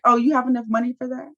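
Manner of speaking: fast, sneering mock question; snide quote. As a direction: toss off the insult quickly and snidely. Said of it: "She's like".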